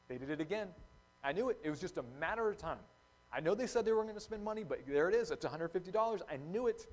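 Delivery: exasperated "I knew it" voice; indignant suspicion. Acted. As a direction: rant like you caught them red-handed. Acting out a suspicious thought.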